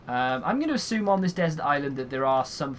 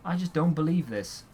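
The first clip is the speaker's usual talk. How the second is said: incredulous; 4 semitones higher than usual. Retold or imitated. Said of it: "I was reading it and I was like".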